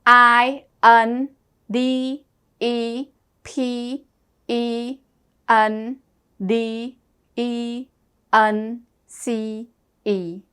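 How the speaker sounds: slow letter-by-letter spelling; spelling aloud. Shown as a demonstration. Teacher spelling sadness for the class, slow and deliberate. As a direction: spell out S A D N E S S slowly, one letter at a time. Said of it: "Independence spell".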